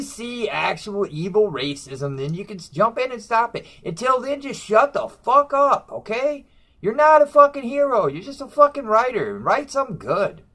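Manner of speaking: shut-the-fuck-up rant, pitch climbing; angry rant. Real, not acted. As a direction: tell them off, building to the top. Ranting at comic writers.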